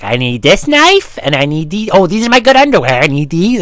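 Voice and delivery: hammed-up flustered urgency; mock frantic. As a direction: act out panicked grabbing. Acting out grabbing things in fire.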